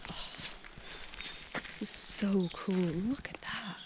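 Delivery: awed whisper, slowing down; quiet marvelling whisper. Real, not acted. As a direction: hush it like you might scare the trees. Hushed awe at mossy trees.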